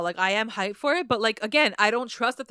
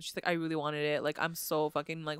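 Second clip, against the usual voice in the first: soft, lower mock confession; quiet confession; 6 semitones lower, 7 dB quieter than usual. Friend voices Betty admitting the kiss, softer and lower. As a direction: murmur it like an ashamed admission.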